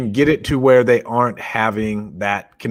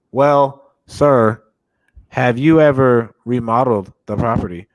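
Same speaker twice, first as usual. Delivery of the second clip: reading off a script; 3 dB louder, slower than usual. Retold or imitated. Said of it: "reading it off".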